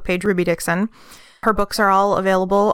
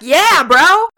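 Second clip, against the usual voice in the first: excited cheer; 7 semitones higher, 6 dB louder than usual. Retold or imitated. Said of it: "I was like".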